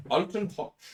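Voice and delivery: echoing a mock German accent. Player echoes the purser's name, mock German accent. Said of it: "lean into the German accent".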